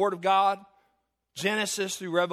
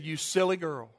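lightly voiced grandma, pitched lower; amused grandmother; 6 semitones lower, 3 dB quieter than usual. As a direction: gently chide the granddaughter, low.

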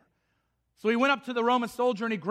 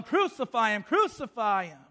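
imitating a yelling crowd, only slightly raised; mild mock yell. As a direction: act out the crowd's demand. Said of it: "They're now yelling".

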